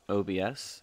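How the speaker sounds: talking while munching cereal; crunching cereal. Real, not acted. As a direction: speak between crunchy bites. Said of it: "apologize for any crunching sounds".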